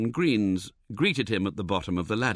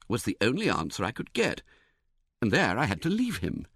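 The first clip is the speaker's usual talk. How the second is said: ordinary delivery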